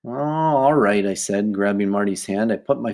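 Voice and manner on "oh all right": slow, drawn-out giving in; reluctant consent. Acted. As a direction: drag it out as you give in. Sheila reluctantly gives in.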